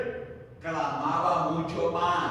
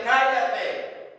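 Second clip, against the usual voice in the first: mild mock yell, higher-pitched; grito imitado de reproche; 5 semitones higher than usual. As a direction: retell the crowd's hushing. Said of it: "Muchos le gritaban". (grito de reproche imitado)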